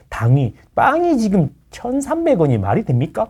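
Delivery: lightly hammed-up YouTube demagogue; mock a shallow rabble-rouser stirring people up; a hint of an outraged online agitator; mock agitator rant. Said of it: "막 이런, 약간 이런 느낌이라는 거지".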